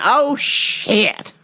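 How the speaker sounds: a mild, muttered oh no; a first dawning of panic; dread. Retold or imitated. Facing the tough opponent.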